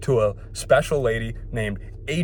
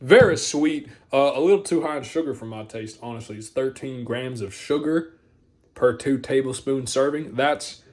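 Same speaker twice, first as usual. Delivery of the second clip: Hank Hill voice. Retold or imitated. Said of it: "switched up to the Hank Hill voice".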